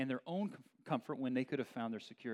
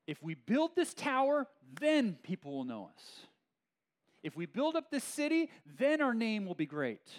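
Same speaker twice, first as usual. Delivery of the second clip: louder and higher, puffed-up boasting; mock boastful builders; 7 semitones higher, 5 dB louder than usual. Preacher voicing Babel builders bragging about their tower, loud mock boast. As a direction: hype it up like a proud builder chasing fame.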